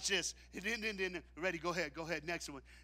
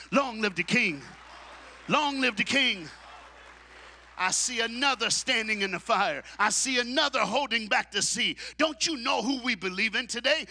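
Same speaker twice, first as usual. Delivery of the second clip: loud, high climactic sermon; full-force preaching; 7 semitones higher, 12 dB louder than usual. Acted. Preacher proclaims God's power to the congregation, full force. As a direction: bring the church to its feet.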